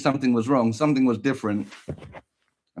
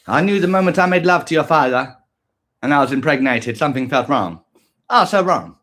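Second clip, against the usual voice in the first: dramatic mother; 6 dB louder than usual. Pretend.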